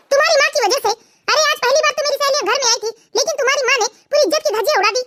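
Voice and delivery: mildly angry, indignant complaint. Acted. Wife blaming husband's mother for her embarrassment, angry. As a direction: complain crossly about his mother. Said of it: "तुम इतने गुस्से में क्यों हो".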